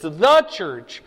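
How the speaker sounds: THE stretched out and hit hard; slow, weighty THE before church; stress on THE. Real, not acted. Teacher insisting there is a single church, stress on THE. Contrasting one church with many.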